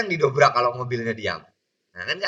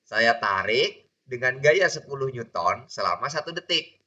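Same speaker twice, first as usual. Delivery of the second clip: slower repeat. Shown as a demonstration. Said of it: "Gitu loh".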